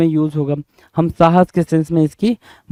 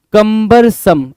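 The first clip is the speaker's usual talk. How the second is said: slow careful pronunciation; 3 semitones higher, 4 dB louder, much slower than usual. Shown as a demonstration. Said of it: "pronounce वैसे करो".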